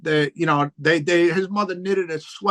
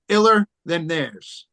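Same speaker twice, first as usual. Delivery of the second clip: The group name said slowly, each word set apart; spelled-out name; slower than usual. Shown as a demonstration. Telling the host his rap group's name, slowly.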